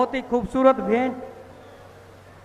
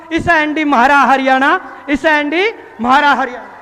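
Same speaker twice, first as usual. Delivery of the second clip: rustic Haryanvi lilt, a bit louder; Haryanvi welcome; 3 dB louder than usual. Real, not acted. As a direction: greet the guest in Haryanvi style. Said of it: "Haryanvi style में हम स्वागत". (हरियाणवी अंदाज़ में स्वागत)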